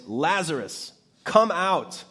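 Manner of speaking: rising loud summons; loud call. Acted. Jesus calling Lazarus out of the tomb, loud call. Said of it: "called out in a loud voice".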